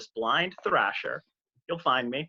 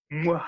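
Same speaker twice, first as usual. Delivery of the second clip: air kiss. Pretend. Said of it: "give me a virtual one".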